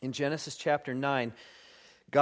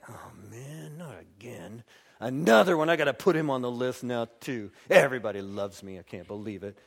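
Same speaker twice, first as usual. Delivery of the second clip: mock weary grumble; 3 semitones lower, 3 dB louder than usual.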